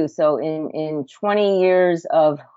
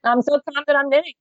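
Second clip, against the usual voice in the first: high, quick playful voice; sing-song mock calm, much higher; mock serene midwife; 10 semitones higher, faster than usual. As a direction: play the placid knitting midwife, teasing.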